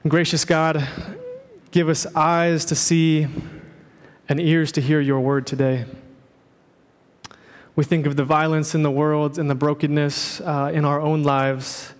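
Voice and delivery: lightly voiced, unhurried prayer. Pastor leading the congregation in prayer, hushed.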